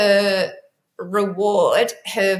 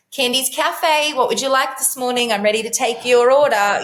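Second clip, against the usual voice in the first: cheery waitress; 4 semitones higher than usual. Pretend. Mum playing cafe waiter.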